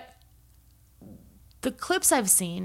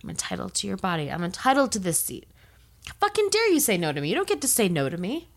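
mock entitled rage; faster than usual. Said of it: "He started getting mad".

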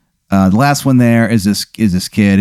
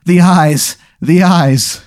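higher-pitched, restrained imitation of a horrified shriek; mock scream; 8 semitones higher, much slower than usual. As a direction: act out a screaming niece without real volume. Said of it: "she screams".

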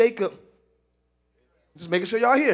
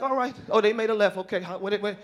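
anxious parent; 5 semitones lower, 7 dB quieter than usual. Retold or imitated. Anxious parent watching kid.

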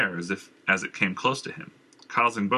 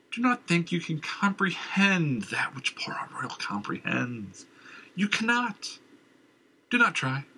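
raving madman; 7 semitones higher than usual. Acted. Madman warns.

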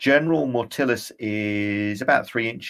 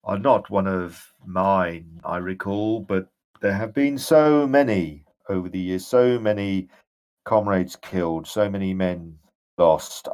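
ghostly general; 3 semitones lower than usual. Acted. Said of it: "And he says".

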